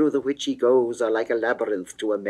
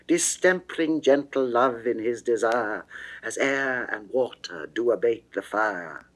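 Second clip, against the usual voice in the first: ordinary delivery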